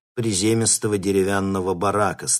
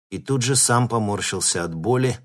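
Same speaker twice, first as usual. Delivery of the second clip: plain reading voice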